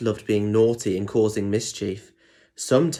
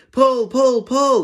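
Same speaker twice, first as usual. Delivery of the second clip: much higher, louder rallying cry; cheering; 14 semitones higher, 6 dB louder, slower than usual. Acted. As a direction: egg him on like a crowd. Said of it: "they cheered".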